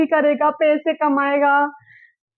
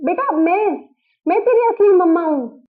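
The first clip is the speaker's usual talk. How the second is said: higher, pleading cry of her name; calling out eagerly; 4 semitones higher than usual. Acted. Birth mother calls out to her daughter, higher pleading. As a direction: reach for the lost daughter. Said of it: "इतना क्यों चिल्ला रही हैं?".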